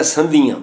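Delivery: ਸੰਧੀਆਂ ending in nasal aa; nasalised final vowel. Shown as a demonstration. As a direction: send the last vowel of ਸੰਧੀਆਂ through the nose. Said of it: "ਕੰਨੇ ਉੱਪਰ ਬਿੰਦੀ". (ਸੰਧੀਆਂ ਦਾ ਆਖਰੀ ਕੰਨਾ ਨਾਸਕੀ)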